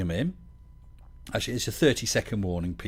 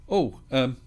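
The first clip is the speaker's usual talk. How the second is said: teasing question; 7 semitones higher, 4 dB louder than usual. Retold or imitated. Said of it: "the first thing people say is".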